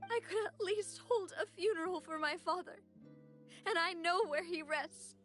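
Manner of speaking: distressed, voice lifting with grief; grief-stricken. Acted. Woman mourning friends lost in the flood, grief-stricken. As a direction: tell it through welling grief.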